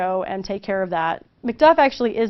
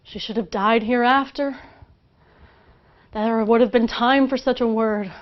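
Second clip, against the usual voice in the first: dramatic recitation. Acted. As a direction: let each line sink like a funeral bell. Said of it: "And here it is".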